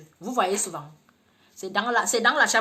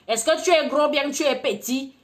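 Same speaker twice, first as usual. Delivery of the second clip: put-on blunt village girl; 4 semitones higher, 7 dB louder than usual. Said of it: "comme une villageoise".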